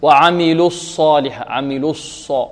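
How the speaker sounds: الص said with lips still pursed from the u of عملوا; wrong lip rounding. Shown as a demonstration. Teacher showing the faulty reading, rounded ص. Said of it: "لا نقول".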